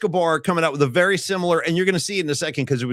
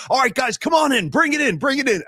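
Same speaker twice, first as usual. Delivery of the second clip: higher-pitched coach rallying the team; Vrabel; 7 semitones higher than usual. Retold or imitated. Coach gathering his team after the speech, imitated rallying call. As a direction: imitate a coach calling the huddle in. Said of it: "and Vrabel goes".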